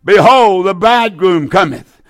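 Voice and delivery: ringing "Behold", then easing; crying out. Acted. Preacher leading listeners in the midnight cry, crying out. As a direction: call it out for all to join. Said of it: "There was a cry made".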